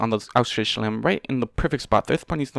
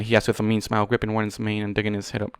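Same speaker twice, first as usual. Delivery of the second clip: ordinary delivery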